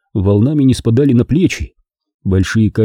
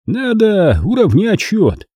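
slow, higher, cold threat; menacing; 11 semitones higher, slower than usual. Acted. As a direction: drag it out, savouring the threat. Bald man's threat.

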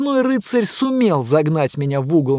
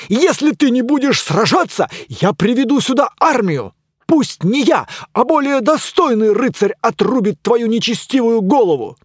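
loud, high pompous threat; blustering knight; 8 semitones higher, 4 dB louder than usual. Acted. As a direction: threaten grandly.

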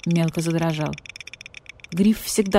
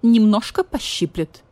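cold; 4 semitones higher, 5 dB louder than usual. Acted. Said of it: "холодно сказал Гриф".

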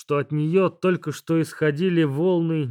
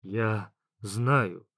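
quiet, lower gentle smile; soft smiling; 7 semitones lower, 6 dB quieter than usual. A narrator's reading. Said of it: "мягко улыбнулся Дащ-бог".

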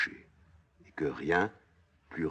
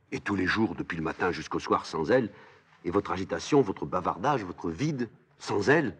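anguished protest; 3 semitones higher, 3 dB louder than usual. Acted. Aimon refuse la vie sans Antigone.

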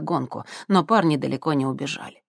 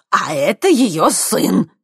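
servile; 4 semitones higher, 7 dB louder, slower than usual. Acted. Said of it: "услужливо ткнул пальцем".

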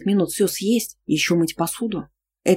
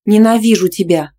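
loud, higher scream; 4 semitones higher, 8 dB louder than usual. Acted. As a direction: scream it after him. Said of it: "выкрикнуть последние слова".

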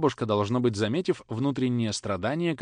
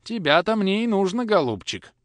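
grim irony; 8 semitones higher, 5 dB louder than usual. Acted. Father catches the boy.

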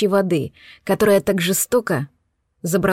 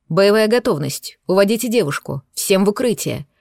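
commanding voice. Acted. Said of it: "прозвучал командный голос".

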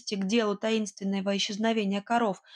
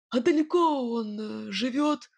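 wary question; 2 semitones higher than usual. A narrator's reading. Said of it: "с опаской поинтересовался он".

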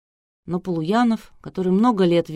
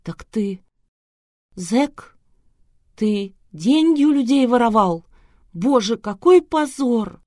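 from a faltering babble rising to a loud shocked cry; falter, then break into a horrified wail; shocked bride learns her groom is an ex-convict, builds to an outcry; stammering to outcry; 6 semitones higher, 5 dB louder, slower than usual. A narrator's reading. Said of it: "Пролепетала".

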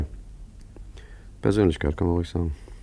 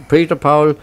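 flustered; 7 semitones higher, 7 dB louder, slower than usual. Acted. Forger fumbling name.

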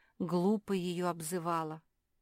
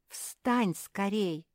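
slow, higher, alarmed urging; frightened plea; 5 semitones higher, 7 dB louder, much slower than usual. Acted. Perla to the kneeling Mafi, alarmed slow plea. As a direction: beg her to get up, startled. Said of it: "испугалась Перла".

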